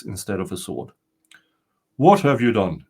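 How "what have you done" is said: startled, louder cry of fright; frightened exclamation. Acted. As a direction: blurt it out in sudden fear. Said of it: "he exclaimed, frightened".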